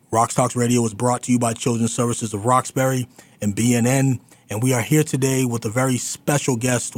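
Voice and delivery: energetic station ID into a break; polished radio sign-off; radio host announcing. Real, not acted. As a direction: announce it to listeners with punchy projection.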